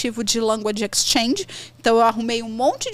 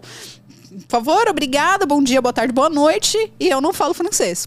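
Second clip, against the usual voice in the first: mock tourist phrases; 2 semitones higher than usual. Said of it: "frase que você tem que decorar".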